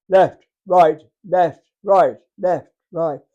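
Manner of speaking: barked drill calls; drill commands. Retold or imitated. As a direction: call the march like a drill sergeant. Drill squad heard down corridor.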